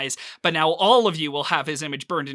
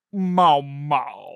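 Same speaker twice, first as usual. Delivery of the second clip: throaty animal meow; deep, throaty creature; 4 dB louder than usual. Acted. Pet beast looking up to answer, deep throaty voice. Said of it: "in this deep, throaty voice".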